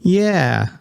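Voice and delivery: sudden loud. A narrator's reading. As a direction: jump the volume all at once. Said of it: "the volume of her voice jumping from a three to a ten".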